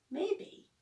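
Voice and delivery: high, rising maybe; noncommittal. A narrator's reading. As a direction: dodge the question with a hopeful lilt. Evasive answer, fingers crossed.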